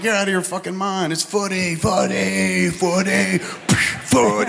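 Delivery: mock British. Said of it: "they're like".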